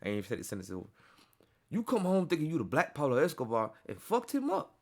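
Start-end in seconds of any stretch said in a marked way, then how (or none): 1.7-4.7 higher-pitched mock taunt; imitated taunt, pitched up from usual talk; a rapper's voice. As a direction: put on a rapper's taunting voice. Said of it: "I gotta read it in the rapper's voice".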